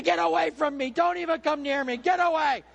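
high, loud furious brush-off in a mock woman's voice; imitating angry wife. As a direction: shove him away with your voice. Wife in labor snaps at husband.

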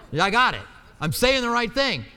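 real amused laugh at himself. Real, not acted. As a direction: laugh off the slip. Catches his own name mix-up.

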